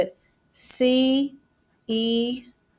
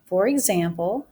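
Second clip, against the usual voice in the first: dictating. Shown as a demonstration. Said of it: "That's my transition".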